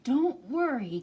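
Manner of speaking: breathless, anxious don't worry; gasping, worried. Acted. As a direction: gasp it out in alarm. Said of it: "gasped Bob".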